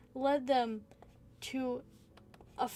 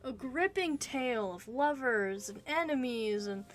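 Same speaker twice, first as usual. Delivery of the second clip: excited; 4 semitones higher than usual. Real, not acted. Gushing mock praise of plot.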